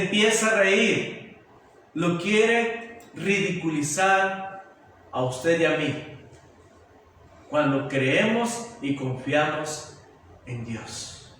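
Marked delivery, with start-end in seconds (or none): 1.9-11.3 much lower and softer, fading away; intimate drop. Real, not acted. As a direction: let it sink into a near hush. Preacher drops to intimate close.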